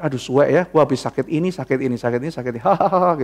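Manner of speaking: laughing at ailments. Retold or imitated. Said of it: "ya lucu juga ya".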